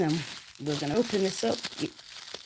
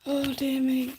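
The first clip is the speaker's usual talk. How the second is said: surprised; 9 semitones higher, 6 dB louder than usual. Real, not acted. Surprised at object in jar.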